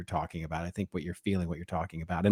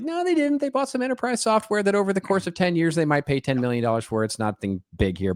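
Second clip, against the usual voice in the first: high, exasperated correction; exasperated rant; 9 semitones higher than usual. Real, not acted. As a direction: set the record straight, worked up. Ranting rebuttal.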